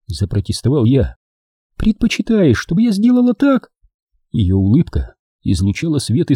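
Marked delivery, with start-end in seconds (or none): 1.8-3.7 put-on higher young woman's voice, teasing; Дженни. A narrator's reading. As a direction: play the girlfriend, sweet and teasing. Jenny teasing. (нежная игривая Дженни)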